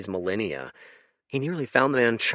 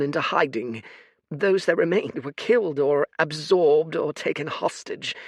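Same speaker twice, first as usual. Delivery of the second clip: put-on high, tired old man voice; a sorrowful old oracle; weary old seer; 7 semitones higher, 4 dB louder than usual. Fate's voice.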